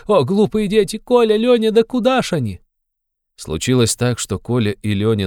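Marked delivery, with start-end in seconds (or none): 0.1-2.6 put-on very high, loud, calling the children in alarm; frightened cry. A narrator's reading. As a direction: call out for the children in sudden fright. Mother calls fleeing children. (испуганный высокий крик)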